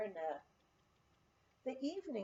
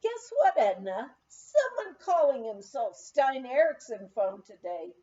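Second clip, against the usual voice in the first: excited calling out; 7 dB louder than usual. Retold or imitated. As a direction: call it out thrilled. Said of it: "Bonnie called to me".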